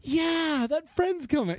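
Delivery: high, sing-song fake cheer; mock enthusiasm. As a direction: play along like a parent faking excitement. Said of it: "you're just like".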